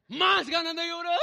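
high, loud mock wailing; hammed-up loud crying; imitated bawling. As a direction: break into exaggerated sobs on the words. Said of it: "me dieron más ganas de llorar".

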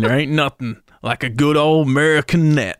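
lightly hammed-up grumble; mock moaning. Father griping about the Taiwanese net, mock moaning. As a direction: grumble as if griping, half in jest. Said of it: "he's moaning about this Taiwanese crap".

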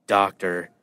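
low, hushed mock nurse announcing. Friend jokes about an assistant, hushed mock nurse. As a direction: play a nurse calling the doctor in. Female nurse voiced in a joke.

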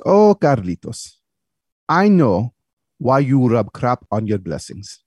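slow, accented impression of his dad; slowly, as a knowing father to his son; wise father.

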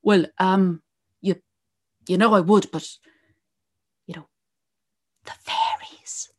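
hesitant, fearful servant, whispering the fairies; nervous farmhand voice. Retold or imitated. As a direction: mumble an excuse, then whisper the fairies. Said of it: "they go".

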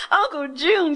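high, loud happy call; girl spots her uncle and calls out in joy; excited cry. Acted. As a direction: call out to him from the train window. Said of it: "she cried".

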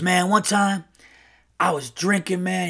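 lightly voiced brash uncle; Earl. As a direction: imitate a brash guy starting a drinking yarn. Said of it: "like, a very brash uncle".

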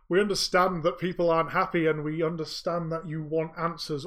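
put-on an old speaker calming an unhappy crowd; formal address.

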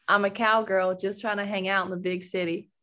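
Southern-tinged American accent. Shown as a demonstration. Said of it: "Yes, but it sounds very, like, Southern".

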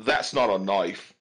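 attempted Australian movie-quote accent; reluctant mock Australian; bad Australian accent. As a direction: put on a poor Australian accent. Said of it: "give us your best Australian accent".

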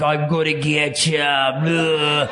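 slow, drawn-out playful menace; toy monster voice. Pretend. Playing with painted trolls in the attic, mock monster. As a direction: play the little monster, stretching the words.

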